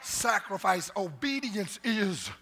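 rising preacher's cadence, pushing the crowd; preaching. Acted. Pastor preaching to the church, rousing. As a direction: preach it to the congregation.

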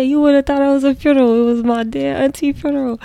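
loud joking exaggeration. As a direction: play up the drama. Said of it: "He said".

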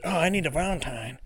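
high, whiny plea for a Valentine; mock lovelorn whimper; mock desperate single. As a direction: whine like a lonely person begging for a date. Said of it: "You're like".

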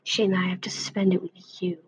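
soft, cutting sarcasm; a quiet jab at the other cat; with an edge. A narrator's reading. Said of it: "with an edge to his voice".

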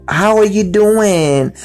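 high, slow, sing-song cheerful greeting; cheerful peppy. Retold or imitated. Customer greeting a night-shift worker, high and peppy. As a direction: beam it out like a happy regular. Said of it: "just a more cheerful, more peppy attitude".

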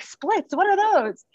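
high, baffled questioning; clueless. Retold or imitated. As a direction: play total ignorance. Clueless about running splits.

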